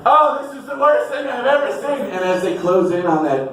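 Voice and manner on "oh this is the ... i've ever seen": mock screaming woman. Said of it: "You just".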